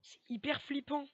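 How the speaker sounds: slow, drawn-out spooked voice; creeped out. Real, not acted. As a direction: let the dread stretch the words. Ghost sings in child voice.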